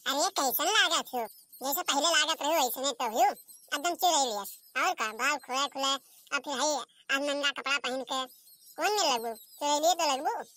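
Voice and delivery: lightly voiced village mother-in-law, teasing in dialect. Mother-in-law teasing her daughter-in-law's clothes, mild mockery.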